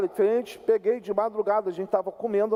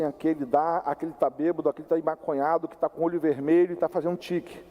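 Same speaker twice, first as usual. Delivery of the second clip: avaliando os adversários; 5 semitones lower than usual. Retold or imitated. Acts out sizing up opponents.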